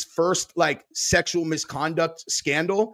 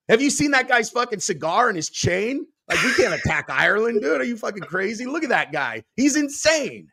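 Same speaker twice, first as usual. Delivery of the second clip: incredulous foreign leaders; 6 semitones higher than usual. Retold or imitated. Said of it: "It's like".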